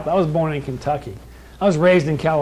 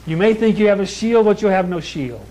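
raised, insistent pulpit delivery; forceful preaching; 4 semitones higher than usual. Real, not acted. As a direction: warn the congregation in a higher, driving preacher's voice.

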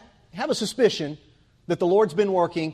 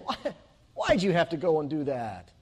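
put-on Jewish accent. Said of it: "poor, whiny old Jewish man saying".

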